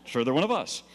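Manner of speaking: high, bright-eyed delight at a mob; retelling his eager rush toward the mob, delighted; gleeful mock excitement. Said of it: "I'm like".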